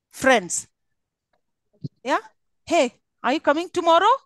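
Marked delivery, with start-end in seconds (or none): 2.7-4.1 "tomorrow" louder and rising at the end; higher, keen question landing hard on "tomorrow"; stress on tomorrow. Shown as a demonstration. Asking friends if they are coming, stress on "tomorrow". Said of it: "So which word you'll be stressing?".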